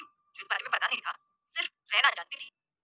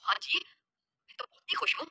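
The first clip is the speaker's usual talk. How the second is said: joyful; 5 semitones higher than usual. A narrator's reading. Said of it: "Ajay ने खुशी से भरकर कहा".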